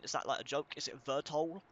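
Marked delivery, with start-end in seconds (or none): 1.0-1.6 "Vertol" starting straight on the V, as a question; questioning "Vertol", first Y left silent. Real, not acted. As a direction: try "Vertol" without the Y, rising at the end. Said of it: "Is the Y silent?".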